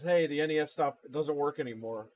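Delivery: imitated frantic caller. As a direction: imitate a customer calling in a mild panic.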